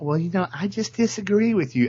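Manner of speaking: put-on soothing voice. Retelling how a dean answered protesting students: imitating a soothing voice. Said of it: "talking in this really, uh, soothing S J W voice".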